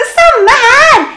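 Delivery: very high, loud horse-like squeal; whinnying. A narrator's reading. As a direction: neigh the words through laughter. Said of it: "vrinsker Eva og høres litt ut som en hest". (vrinskende som en hest)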